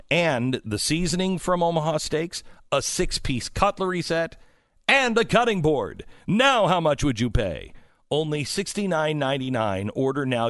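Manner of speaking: rising infomercial pitch voice. Acted. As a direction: build it like a TV pitchman. Ad read, pitch builds.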